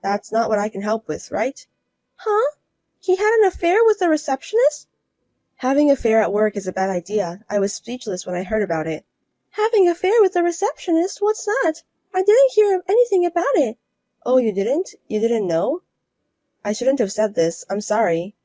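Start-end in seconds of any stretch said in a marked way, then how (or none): 2.2-13.8 higher, disbelieving; higher voiced woman learning her husband cheated; stunned rival wife. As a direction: reel at the news, higher. Learns of affair.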